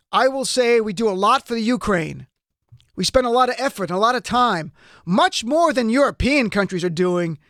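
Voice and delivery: light impression of a politician boasting; Trump. Commentator reading the president's words from the memo, lightly mimicked Trump. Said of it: "Maybe I'll try a Trump impression here and there".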